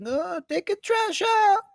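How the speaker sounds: high, slow grandma voice; old grandma voice. Retold or imitated. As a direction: drag it out like a tiny old grandma. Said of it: "She'd be like".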